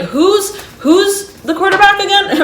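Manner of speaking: high, laughing puzzled question; amused mock confusion. Reader clueless about football asks, laughing in mock confusion. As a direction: ask it in a high voice, half laughing.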